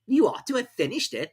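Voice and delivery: a pompous king giving orders; King ordering the herald to read; King's voice. A narrator's reading. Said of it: "said the king".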